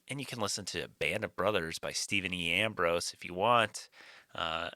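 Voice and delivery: quick, breezy podcast ad read; sponsor ad read. Acted. Podcast host reading the Audible sponsor spot, fast ad read. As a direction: rattle off the sponsor plug fast.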